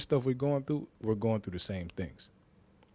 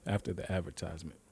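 words around a sip of water; while sipping a drink; 3 semitones lower, 6 dB quieter, faster than usual. Real, not acted. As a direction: talk between sips. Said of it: "Excuse me, I'm drinking water".

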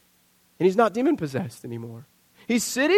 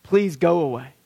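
begging townsfolk; 6 semitones lower than usual. Retold or imitated. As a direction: ask him to go, lightly voiced plea. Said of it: "they beg Jesus".

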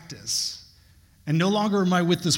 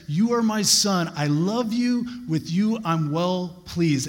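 slow, raised, emphatic proclamation; a lifted, slow, heavenly declaration; voice of God; 3 semitones higher, slower than usual. Acted. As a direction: proclaim it slowly and higher. God's message to Jesus.

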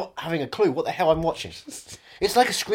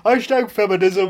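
mock hipster Brooklyn accent, pitched up; loud, hammed-up Brooklyn accent; 4 semitones higher, 6 dB louder than usual. Shown as a demonstration. Guest spouting hipster slogans, Brooklyn accent. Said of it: "Listen to my Brooklyn accent".

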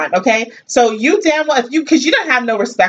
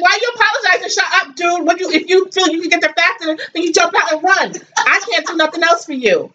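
retold rant; 5 semitones higher than usual. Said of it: "I'm like".

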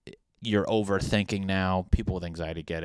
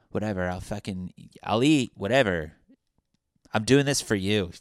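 put-on sulky whining girlfriend; 2 semitones higher than usual.

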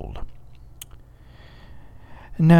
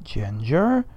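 slow, calm. Acted. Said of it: "slowly saying".

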